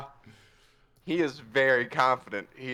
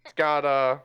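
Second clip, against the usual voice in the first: somewhat higher, self-important musing; pompous Puss; 3 semitones higher than usual. Acted. Puss inspecting the box, mock-expert pomp. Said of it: "He's like".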